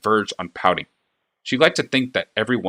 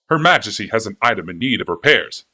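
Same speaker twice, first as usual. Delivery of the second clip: fawning clockmaker; 4 dB louder than usual. A narrator's reading. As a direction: gush over the princess like an eager flatterer. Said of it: "stressing an introduction".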